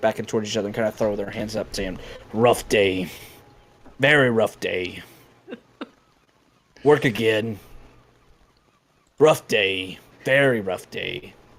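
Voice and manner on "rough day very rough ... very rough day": drawn-out, throaty, guttural sound, slow. Voicing two figures mimicking each other after work, in a slow guttural voice. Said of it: "slow kind of guttural sound".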